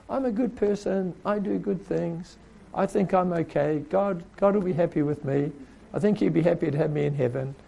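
mock the complacent good person; imitating a self-satisfied person. Preacher voicing people told the gospel, lightly mocking. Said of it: "they talk like this".

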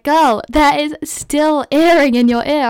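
drawn out, sing-song and a little incredulous; imitating the ear doctor. Ear doctor telling her the earring is still in, high and slow.

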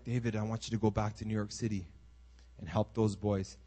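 voice of God. Retold or imitated. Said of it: "the Lord's like".

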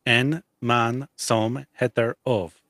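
slow Swedish pronunciation. Shown as a demonstration. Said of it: "What'd you say?".

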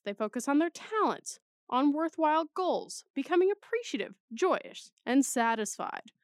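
bold, punchy news anchor read. Pretend. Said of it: "Should I read this one like a, like a news anchor?".

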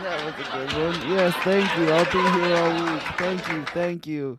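loud, hammy stand-up comic thanking the crowd; brash vaudeville comic. Pretend. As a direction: play a cheesy comic milking applause. Mock stage comic thanking crowd.

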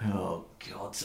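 low, soft groaned aside; weary dread. Acted. Burden looks at the party as the voice approaches, low weary dread. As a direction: groan it to yourself.

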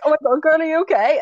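high-pitched worried check-in; retold concern. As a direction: imitate fussing over a friend. Retold worried message to friend.

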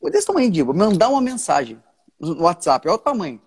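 put-on young man confessing to his pastor, high and pleading; anguished young man, retold. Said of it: "ele falou".

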